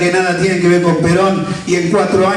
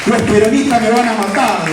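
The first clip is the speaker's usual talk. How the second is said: quoting the politician; 4 semitones higher than usual. Retold or imitated. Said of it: "decía".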